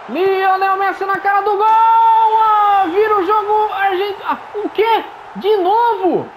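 high, loud shouting at the goal; excited shout. Real, not acted. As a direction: yell it out in disbelief. Messi scores, gamer yells.

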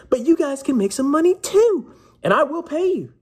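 high, breathy conspiratorial whisper. Real, not acted. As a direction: whisper the offer like a secret deal. Whispered promise to pay viewers.

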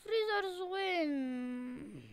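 very slow, crying groan; tearful defeat. Real, not acted. Losing player repeats the result slowly through tears. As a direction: let the loss sink in and whimper it.

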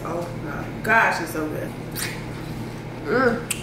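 eating while speaking; talking while chewing fruit. Real, not acted. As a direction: mouth partly full. Seen 0: Holds fruit at mouth, apparently chewing while speaking; not in refs.

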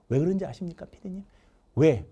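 ordinary talk, nothing marked

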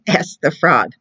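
real giggle breaking into the narration; laughing through it. Real, not acted. Librarian reading to kids can't hold back a laugh. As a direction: let the laugh spill into the words. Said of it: "try very hard not to laugh".

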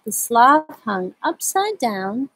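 slow, drawn-out story reading; slow read-aloud. A narrator's reading. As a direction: read at a sloth's pace. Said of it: "I like to read this book very slowly".

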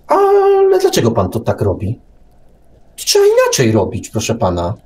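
high-pitched mock eager youngster; cocky young man. Young man lecturing a seasoned businessman, high and eager. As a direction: play the know-it-all kid lecturing his elder. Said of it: "Przychodzi i mówi".

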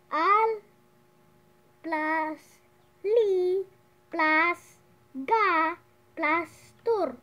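"Al", "li", "ga", "tor" punched as separate beats; syllable by syllable. Shown as a demonstration. Teacher adding up alligator's syllables, each of "Al", "li", "ga", "tor" set apart. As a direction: spell out "Al plus li plus ga plus tor" with pauses between. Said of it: "the syllables are".

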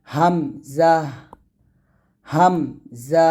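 হামজা said light with a small h at the end; thin hamza demo. Shown as a demonstration. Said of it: "এরকমভাবে পাতলা করে উচ্চারণ করবেন".

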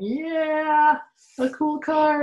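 dog voice. Pretend. Teacher voicing the dog admiring the car, playful. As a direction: give the dog a silly voice. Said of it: "There's the dog going".

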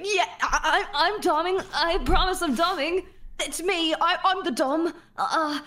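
mocking imitation. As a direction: parody him, laughing as you go. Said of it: "He's like".

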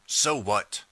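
mildly irritated retort; irritable. Acted. Emperor dismissing the time traveler's protest, irritably. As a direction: brush the objection off with some irritation. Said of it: "he says irritably".

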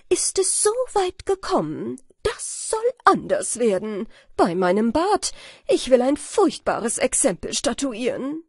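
a touch of royal wrath, rising high on the question; a mildly hammed-up furious king; angry king. The king vows punishment to his subjects, mildly wrathful. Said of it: "denn er war sehr zornig".

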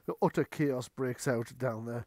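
ordinary talk, nothing marked

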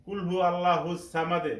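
আল্লাহুস সামাদে with light L and thin S; common mistake. Retold or imitated. Teacher imitates how many misread the verse, light letters. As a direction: say আল্লাহুস thin, "al-laa-hus saamad". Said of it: "অনেকেই ভুল করে".

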